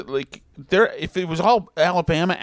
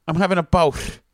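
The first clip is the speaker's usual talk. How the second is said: lightly imitated Boston girlfriend, a little higher; thick Boston accent; 4 semitones higher than usual. Girlfriend complaining of a stomach bug, imitated Boston accent. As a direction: put on a Boston accent, pitched up slightly. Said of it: "had a totally thick accent".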